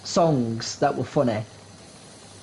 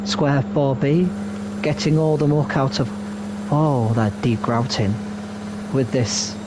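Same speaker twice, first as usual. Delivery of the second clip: mock commentary; 2 semitones lower than usual. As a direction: parody a cleaning game commentator. Mocking a power wash commentary.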